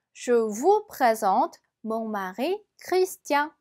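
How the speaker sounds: slow, careful French model sentence; slow teacher's French read-aloud. Shown as a demonstration. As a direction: read it slowly like a language tape. French dialogue line, slow.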